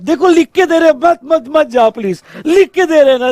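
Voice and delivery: high-pitched, urgent coaxing; mock pleading. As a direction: act out begging someone to stay. Central begs states not to leave. (मनाने की नाटकीय गुहार)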